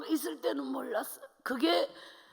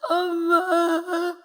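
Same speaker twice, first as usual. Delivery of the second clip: slow, loud, drawn-out cry for mom; desperate call; 4 semitones higher, 8 dB louder, much slower than usual. Retold or imitated. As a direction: call out to her mother who isn't coming. Child calling mother trapped inside. (절박하게 엄마를 부르며)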